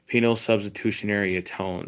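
quick run through the term; said really fast. Real, not acted. Host naming the doctrine to his nephew, said really fast. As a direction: rattle off the long technical term. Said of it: "I know I said that really fast".

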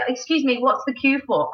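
high polite query; a hint of a prim Brit; lightly voiced polite stranger; polite English asker. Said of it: "you will say".

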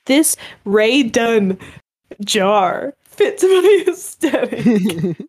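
slow, drawn-out snooty aesthete, laughing; drawling posh decorator voice, breaking into a laugh; snooty rich person. Retold or imitated. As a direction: lazily savour every word like a rich snob. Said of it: "and they just were like".

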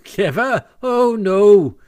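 high, loud self-satisfied denial; puffed-up false modesty. A narrator's reading. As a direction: deny it while swelling with pride. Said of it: "Toad was puffing and swelling already".

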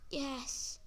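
rough, hoarse little yes. Acted. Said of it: "Thomas said in his hoarse voice".

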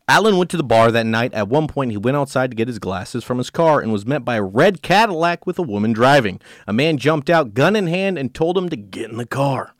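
measured true-crime read-aloud; story narration. A narrator's reading. Host reads a case to co-host, story narration.

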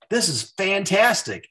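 high-pitched retold delight; delighted reaction. Retells delight at seeing the post.

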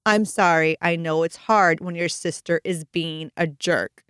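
put-on slow, pointed apology aimed at the other child; retold parent losing patience, emphatic; mock exasperated apology. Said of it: "Not handling it well".

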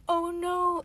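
retold dismay. Friend retells Mia seeing the dead dog, mock dismay. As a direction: imitate a girl's dismay.

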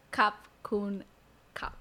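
"Kap kun kap" word by word, slowly; slow Thai demo. Shown as a demonstration. Teacher models "Kap kun kap" for learner, slowly. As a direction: separate "kun" and final "kap" with a pause. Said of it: "So you would say".

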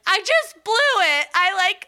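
high dramatic dismay; dismayed high wail. Retold or imitated. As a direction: wail it up high like you've ruined everything. Telling manager, dismayed.

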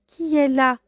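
gruff big voice. Acted. Wolf in grandmother's bed answers the knock, gruff. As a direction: bark it out as the wolf. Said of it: "la grosse voix qui répondit".

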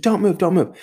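mom's urgent orders, high and loud; mock ER scream. Mom ordering her fallen husband not to move, high urgent shouting. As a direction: command him to stay still, like an ER nurse. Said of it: "She starts screaming".

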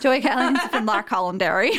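jokey put-on Derry accent; Northern Irish accent. Friend mimicking the podcast man from Derry, Northern Irish accent. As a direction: imitate a Northern Irish man through giggles.

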